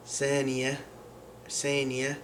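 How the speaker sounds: saniya said with a clear S sound at the start; Syrian pronunciation. Shown as a demonstration. Teacher showing learners the Syrian S sound, demo. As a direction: say saniya slowly, S not th, as a demo. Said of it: "would become".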